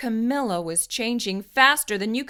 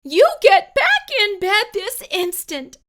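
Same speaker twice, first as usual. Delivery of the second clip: high, loud commanding mother; stern order; 13 semitones higher, 9 dB louder than usual. Acted. Mother ordering Camilla back to bed, loud stern command. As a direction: lay down the law firmly. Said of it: "her mother ordered".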